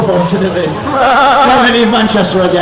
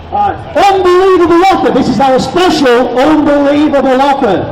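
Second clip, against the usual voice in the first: salesman pitch; 3 semitones higher than usual. Pretend.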